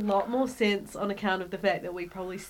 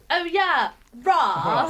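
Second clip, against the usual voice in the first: posh British; 5 semitones higher, much slower than usual. Retold or imitated. Mocking posh English people to his friends, posh British voice. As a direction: mimic a posh English toff drawling "Ra". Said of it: "You're like".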